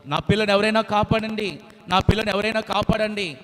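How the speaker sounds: loud high plea for help; mother bird crying out. Acted. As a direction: cry out to save her chick. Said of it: "అరుస్తా ఉంది".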